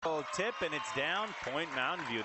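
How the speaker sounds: sportscaster reacting live; excited play-by-play. Real, not acted. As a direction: call the tip as it drops. Live call of a point.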